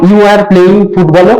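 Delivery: slow, careful model sentence for the class; deliberate teacher demo. Shown as a demonstration. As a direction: lay out each word slowly. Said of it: "আবার যখন হবে plural".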